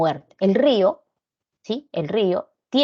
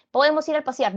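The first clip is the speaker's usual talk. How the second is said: bright, much higher inviting voice; friend's invitation; 8 semitones higher than usual. Acted. Friend inviting someone out for a walk, higher eager ask.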